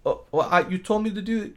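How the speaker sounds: imitated testy protest; nasty. Assistant protests to the dentist, mildly nasty. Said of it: "they were so nasty to each other".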